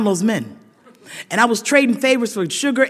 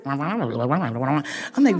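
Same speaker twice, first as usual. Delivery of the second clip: mimicked muffled noise; 8 semitones lower, 5 dB quieter than usual. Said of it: "it sounded like this".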